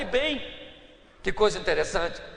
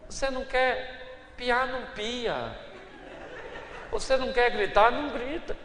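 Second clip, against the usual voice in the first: voice of God; 6 dB quieter than usual. Pretend. God speaking in his heart.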